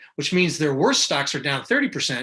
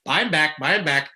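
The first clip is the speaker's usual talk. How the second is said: movie quote; 3 dB louder than usual. Retold or imitated. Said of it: "It's like, you know, Trading Places".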